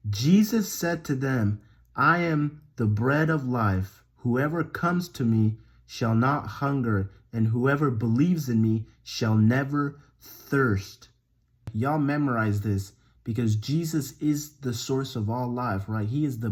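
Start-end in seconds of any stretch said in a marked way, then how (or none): 0.1-11.1 slow, measured scripture reading; slow verse repetition. Acted. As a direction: lay each phrase down slowly to be memorized. Slow repeat to be memorized.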